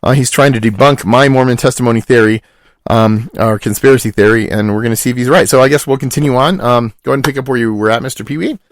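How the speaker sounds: deep goofy character voice; low put-on voice. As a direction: drop into a low silly voice.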